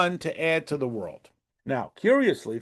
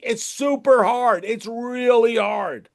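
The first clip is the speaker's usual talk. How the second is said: slow and higher, leaning on really; emphatic sympathy; 5 semitones higher, slower than usual. Shown as a demonstration. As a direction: stretch it out to say you truly agree. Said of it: "I'm telling you, I agree".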